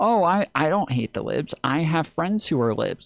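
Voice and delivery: scornful, derisive mocking parody voice. Mocking how another speaker is playing it: mocking imitation of her. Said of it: "trying to do this, like".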